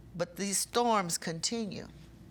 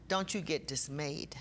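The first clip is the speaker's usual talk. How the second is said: whisper. Real, not acted. Preacher comforting grieving congregation.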